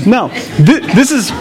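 amused at his own Princess Bride joke; laughing. Real, not acted.

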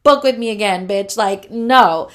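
loud angry telling-off to a client, half reenacted; retold telling off. Photographer yells at client who disputed the charge, loud retold rant. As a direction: yell at the client who never paid. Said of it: "So I went off on her".

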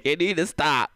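hammed-up angry mom through laughter; girlfriend's mom catching teens, mock scolding; stern mom. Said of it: "she was like".

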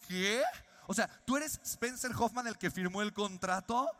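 double-check in amazement; incredulous. Retold or imitated. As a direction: guest realising his host is so young. John disbelieving the young host.

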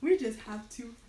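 furious ranting gnome, high and loud; angry gnome. Acted. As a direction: shout it, fed up with talk. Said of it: "slams his hand on the ground and says".

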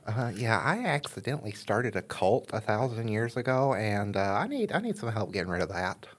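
lightly voiced noble paladin; a hint of a holy knight. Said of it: "That's my paladin voice".

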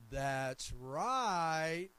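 drawn-out, swelling RIGHT in imitation of a church lady; put-on voice, stretching the last word long; church lady's approving shout. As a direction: imitate a congregant calling out approval. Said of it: "that's exactly how she would say it".

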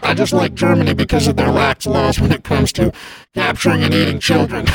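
gleeful holiday monster voice; Krampus voice. Acted. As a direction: play a cheerfully wicked Krampus. Krampus character voice held.

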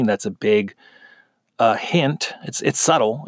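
ordinary delivery

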